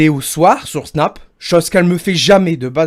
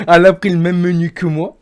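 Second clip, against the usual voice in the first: laughing; 4 semitones higher, 4 dB louder than usual. Real, not acted. Laughing at his own story.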